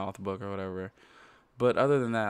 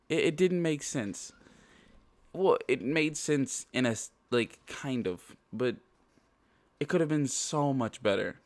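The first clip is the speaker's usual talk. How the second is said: stuffy nose from allergies; congested; 5 semitones higher than usual. Real, not acted. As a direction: talk through a blocked nose. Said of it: "sorry if I sound, like, congested".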